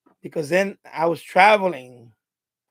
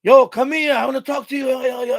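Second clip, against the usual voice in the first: loud, higher catcall; mock catcalling worker; 4 semitones higher, 5 dB louder than usual. Construction workers catcalling women, loud mock holler. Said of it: "construction workers".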